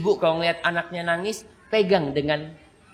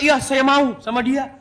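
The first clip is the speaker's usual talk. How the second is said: put-on shy girl; 7 semitones higher than usual. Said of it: "Nggak mungkin dia mengatakan".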